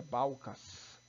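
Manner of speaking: "Balcas" with a plain oral final A; without nasalization. Shown as a demonstration. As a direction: read "Balcas" as if it had no tilde. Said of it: "você não teria como ler".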